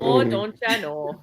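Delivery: slow put-on Minnesota accent. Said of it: "What is that accent".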